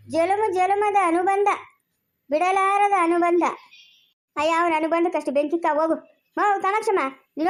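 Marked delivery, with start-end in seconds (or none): 0.1-3.4 slow, drawn-out proclamation; slow declaiming. Acted. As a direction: stretch it out like a grand verse. Mockingly declaiming their eternal bond.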